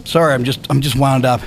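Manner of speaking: winded, catching his breath. Real, not acted. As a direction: talk while still panting. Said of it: "you're out of breath a little bit".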